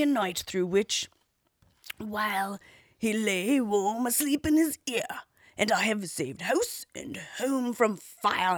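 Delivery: worn-out faithful dog complaining; old hound voice. Acted. Hound speaks in tale.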